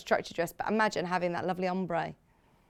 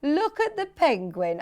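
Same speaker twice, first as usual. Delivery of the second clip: higher-pitched mock Birmingham accent; playful Birmingham accent impression; imitated Birmingham accent; 6 semitones higher than usual. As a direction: narrate a nature programme in Birmingham accent. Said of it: "to do your accent".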